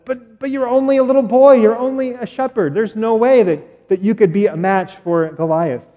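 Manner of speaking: a touch of a fretting king; doubting king. Acted. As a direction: protest like a worried old king. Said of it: "King Saul says".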